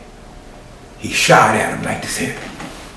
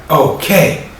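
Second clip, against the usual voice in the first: smooth radio DJ rising to a shouted name; 7 semitones higher, slower than usual. Retold or imitated. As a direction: hype DJ intro building to a high shout. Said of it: "And he was like".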